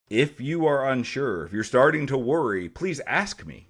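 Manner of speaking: high, drawn-out teacherly explaining; mildly exaggerated patient instructions; careful instruction. Retells careful instructions to students.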